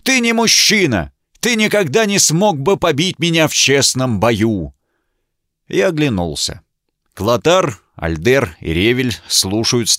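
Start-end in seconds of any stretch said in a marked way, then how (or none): 0.0-4.7 кричит оскорбления, гораздо выше; презрительно орать на противника; яростный крик. A narrator's reading. Рыцарь в ярости оскорбляет героя. (взбешённый рыцарь кричит, что герой не воин)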